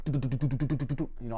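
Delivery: machine gun noise. Retold or imitated. Imitating machine gun fire.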